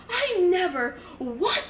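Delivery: lightly hammed-up shocked mother; Meryl Streep. Mom pretending she doesn't know what's going on, mock-dramatic shock. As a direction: overact the innocent, scandalized parent. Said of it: "pretending to be Meryl Streep".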